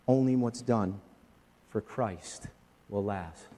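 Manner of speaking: slow, measured poem reading; reading a hymn-like poem aloud; poem recitation. Acted. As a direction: let the lines settle, solemnly.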